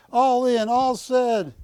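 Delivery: "All in, all said" shouted high and loud; loud call. Acted. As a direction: belt out "all in, all said". Loud closing formula at sale.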